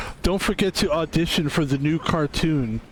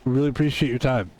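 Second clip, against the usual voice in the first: rushed brush-off; 3 semitones lower, faster than usual. Pretend. Casting director brushing off.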